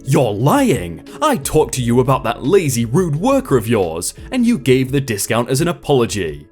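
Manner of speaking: put-on storytelling in an Indian accent. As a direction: keep the Indian accent through every voice. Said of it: "I'd like to apologize for the accent".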